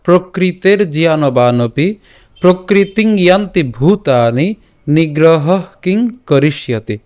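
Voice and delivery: slow, measured shloka reading with drawn-out long vowels; Sanskrit verse recitation. Shown as a demonstration. Teacher reciting the day's shloka for learners, slow measured recitation. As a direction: recite it slowly, syllable by syllable. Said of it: "আজকের শ্লোকটি হলো".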